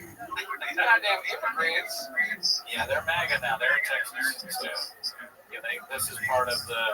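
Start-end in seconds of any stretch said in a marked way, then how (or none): 0.0-1.9 slow, higher cowboy drawl. Retold or imitated. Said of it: "She starts talking like a cowboy".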